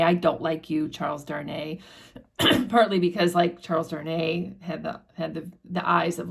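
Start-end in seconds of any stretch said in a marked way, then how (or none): 0.0-1.8 put-on drunken sour taunt. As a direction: lower and fading, mock-sulky drunk. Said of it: "obnoxious conversation where he's like".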